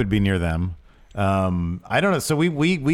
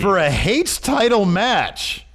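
announcing big news; 6 semitones higher than usual. Real, not acted. Continuing the match announcement.

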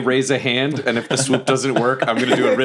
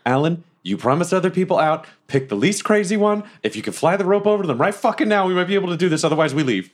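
higher, pressing orders, rushed in the middle; urgent plea; 5 semitones higher, faster than usual. Acted. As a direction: hurry her along with rising urgency. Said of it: "I turn to Alan and I'm like".

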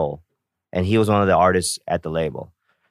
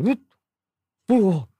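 amazed; 11 semitones higher than usual. Retold or imitated. Retelling his amazement.

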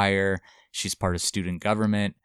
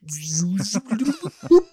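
fast forward noise; 13 semitones higher, 4 dB louder than usual. Shown as a demonstration. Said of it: "can you make a fast forward noise with your mouth".

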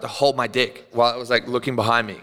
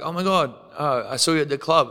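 higher-pitched mock recognition; excited greeting; 3 semitones higher than usual. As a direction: imitate a stranger thrilled to spot you. Retold stranger greeting him excitedly.

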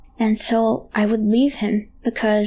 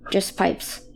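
quiet dismissive dad; 2 semitones lower, 6 dB quieter than usual. Retold or imitated. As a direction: murmur it like a tired father.

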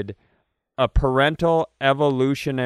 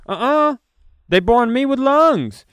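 a lizard-person voice; 11 semitones higher, 5 dB louder than usual. Retold or imitated. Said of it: "one of 'em goes".

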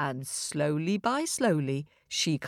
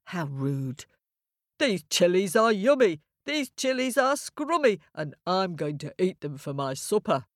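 lightly voiced rude ram; a hint of a scoffing old ram. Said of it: "the Ram stamped his foot and said".

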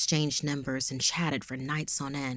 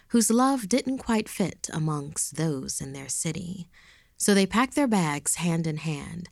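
poem recitation. Acted. Reads a rhyming poem.

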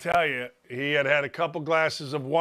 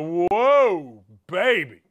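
amazed; 3 dB louder, much slower than usual. Retold or imitated. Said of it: "I went".

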